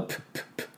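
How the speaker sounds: popped aspirated P; P sound drill. Shown as a demonstration. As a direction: burst each P out. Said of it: "Pの音も出してください".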